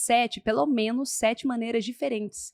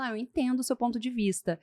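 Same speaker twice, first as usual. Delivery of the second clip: softer, understanding acknowledgement; softener phrase; 5 dB quieter than usual. Shown as a demonstration. Coach models a reply to a defensive person, gently soothing. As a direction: concede gently before making your point. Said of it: "os suavizadores".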